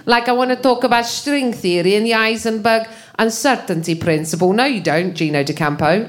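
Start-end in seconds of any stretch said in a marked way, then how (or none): 0.3-4.5 lightly put-on Italian accent, mocking a physicist; a hint of an Italian scientist's accent. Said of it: "it sounded like this".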